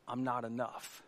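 very soft, low murmur; self-doubting thought. Acted. Woman believing the enemy's lie, hushed self-doubt. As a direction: say it quietly, as an inner lie. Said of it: "the number one lie that the enemy will hit you with".

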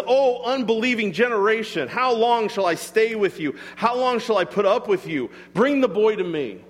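retold with mild exasperation; frustrated. Jesus to an unbelieving generation, mildly frustrated. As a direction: voice a touch of weary frustration. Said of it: "I think he was frustrated".

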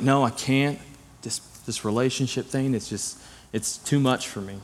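retold mopey excuse, soft and faltering; mock heartbroken refusal. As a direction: beg off weakly, as if too hurt. Acting out his heartbroken refusal.

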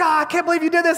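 high-pitched imitation of a coach scolding; mock exasperation. Coach acted out scolding the player.

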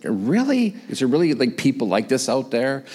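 lightly acted disbelief; a little incredulous. Preacher voicing his doubting congregation, mildly incredulous. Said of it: "we're all a little incredulous".

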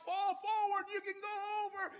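high, urgent yell; urgent shout. Retold or imitated. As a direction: shout at him to fall forward. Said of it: "And I was like".

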